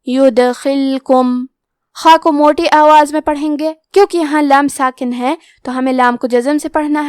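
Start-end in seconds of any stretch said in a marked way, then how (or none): 0.1-1.4 یدخلکم with the still dal given a small echoing bounce; bouncing dal. Shown as a demonstration. Teacher shows students the bounce, very slowly. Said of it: "حرف دال کو ہلاتے ہوئے یہ کلمہ کو پڑھیں گے".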